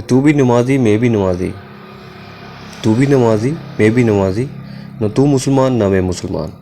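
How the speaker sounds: declaimed couplet with lifted openings; verse recitation. Real, not acted. Teacher quoting an Iqbal couplet on prayer, verse recitation. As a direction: recite the verse in measured halves, pausing between.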